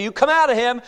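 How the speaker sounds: high, loud order; commanding Jesus. Acted. Preacher voices Jesus casting out demon, forceful command. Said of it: "you hear Jesus Christ say".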